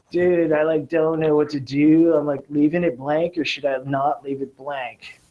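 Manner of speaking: laid-back SoCal surfer dude; lightly voiced SoCal surfer, unsure; SoCal surfer accent. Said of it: "that's my, like, SoCal surfer accent".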